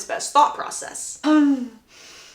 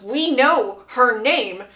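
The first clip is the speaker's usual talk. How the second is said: drawn-out exasperation, climbing higher and louder; frustrated grandmother; 9 semitones higher, 3 dB louder, slower than usual. Acted. Grandmother interjects at her tongue-tied grandson, frustrated. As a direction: spell it out impatiently, building in pitch. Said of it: "very, very frustrated, and just goes".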